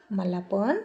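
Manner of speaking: "मला पण" left hanging on a rising tune; hesitant, breaking off. A narrator's reading. Chandra gathers courage to confess to Shashi, hesitant. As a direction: break off "मला पण" unfinished, last word lifting. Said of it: "आणि थांबली".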